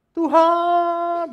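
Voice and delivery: very high, loud, long-held mock prayer call; imitasi doa pakai speaker. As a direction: belt it out like a prayer over a loudspeaker. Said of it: "pakai speaker". (menirukan seruan doa lantang dan panjang seperti pakai pengeras suara)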